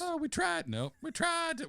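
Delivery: high Southern belle voice; squeaky high girly falsetto; man doing a woman's voice. Shown as a demonstration. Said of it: "Can you say it in a girl's voice?".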